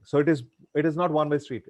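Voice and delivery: usual speaking voice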